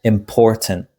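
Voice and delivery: "important" with stress on POR; im-POR-tant, outer syllables left weak; stress on middle syllable. Shown as a demonstration. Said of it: "we stress the middle syllable".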